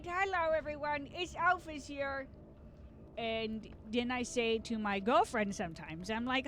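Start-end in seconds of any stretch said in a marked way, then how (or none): 0.0-2.3 put-on game character voice with swooping pitch; Alfie. Shown as a demonstration. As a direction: answer the phone in a silly character voice. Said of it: "Sometimes I answer the phone like that".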